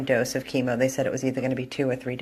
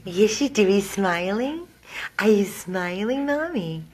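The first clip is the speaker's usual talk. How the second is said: higher, louder coo "Yes, you do"; excited pet talk; 5 semitones higher, 5 dB louder than usual. Real, not acted. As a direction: gush over the dog in a bright pet voice. Cooing to the dog.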